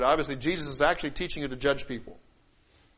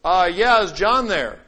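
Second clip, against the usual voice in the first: raised, louder caller voice; unknown phone caller; 4 semitones higher, 9 dB louder, slower than usual. Acted. Caller asking for John on the phone, raised voice. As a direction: ask for someone on the phone, pitched up. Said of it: "And they go".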